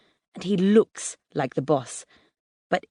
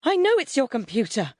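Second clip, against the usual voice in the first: high, overwrought retort; hysterical cry; 6 semitones higher than usual. A narrator's reading. Mum answering her son from the window, hysterical. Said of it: "Mum cries hysterically".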